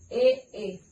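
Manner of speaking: E, e said as two distinct sounds; two separate vowels. Shown as a demonstration. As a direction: sound out E, e one by one. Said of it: "estas vocales están repetidas". (dos vocales e separadas)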